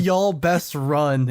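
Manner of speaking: very slow, drawn-out echo; slow echo asking for the French; slow repeat. Retold or imitated. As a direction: repeat it slowly to savor it. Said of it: "What is ... in French?".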